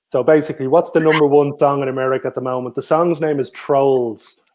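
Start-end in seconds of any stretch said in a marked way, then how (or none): 2.8-4.5 slow hint. Shown as a demonstration. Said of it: "I'll give you a little hint".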